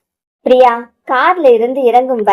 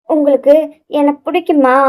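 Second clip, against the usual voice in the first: a touch of hesitation, a little higher; hesitant question; 3 semitones higher than usual. Acted. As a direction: ask shyly, holding back. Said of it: "தயங்கியபடியே கேட்க".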